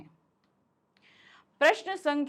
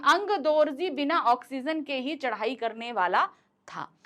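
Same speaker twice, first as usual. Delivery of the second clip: ऑक्सीजन के ही pressed; stress on ऑक्सीजन. Shown as a demonstration. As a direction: hit ऑक्सीजन के ही. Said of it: "हमने ऑक्सीजन पे जोर देने के लिए".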